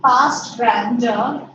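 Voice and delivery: spaced, slow "past grandeur" for note-taking; slow dictation. Shown as a demonstration. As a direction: read "past grandeur" slowly so they can write it. Dictating slowly to class.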